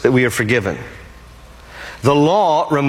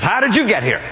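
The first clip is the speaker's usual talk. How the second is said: puzzled angel; 7 semitones higher, faster than usual. Retold or imitated. Angel questions the thief.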